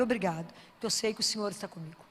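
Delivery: soft, grateful little prayer; whisper-close thanks to God; quiet thanks. Pretend.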